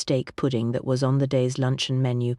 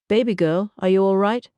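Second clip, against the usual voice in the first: higher and louder, concerned American voice; soft American accent; 5 semitones higher, 4 dB louder than usual. A narrator's reading. Singer seeing Kitty sway, concerned American accent. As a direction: catch her with worry in an American accent. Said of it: "soft American accent as smooth as honey".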